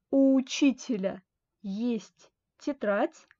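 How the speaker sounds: each word of у учителя есть тетрадь said slowly and apart; slow model reading. Shown as a demonstration. Teacher repeating the example slowly for French students. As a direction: spell it out slowly for the class. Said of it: "Alors que dans l'exemple".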